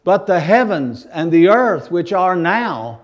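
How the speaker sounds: solemn pulpit Bible reading; scripture reading. Acted. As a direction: read the Word with weight and authority. Reads scripture from Second Peter.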